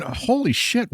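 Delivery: high, hushed exclamation; retold burst of astonishment; amazed greeting. Running into a long-lost friend at the bar, amazed.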